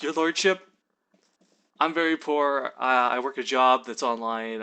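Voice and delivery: mildly pitiful plea; puppy-dog pleading. Retold or imitated. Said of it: "I put on, like, my puppy dog eyes".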